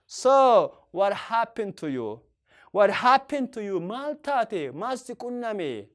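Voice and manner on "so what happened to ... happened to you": slow, each word set apart; slow teacher model. Shown as a demonstration. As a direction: model it slowly. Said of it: "Or you can say".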